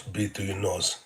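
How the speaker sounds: "breathe" said softly, trailing down. Shown as a demonstration. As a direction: ease off and say "breathe through your nose" gently. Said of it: "one of the pro tips is".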